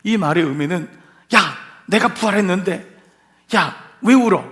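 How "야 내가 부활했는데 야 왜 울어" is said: louder, reproachful challenge; mock scolding. Preacher acts out Jesus wrongly scolding Mary at the tomb, mock reproach. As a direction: scold as if the crying makes no sense. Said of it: "나무라는 말이 아니에요".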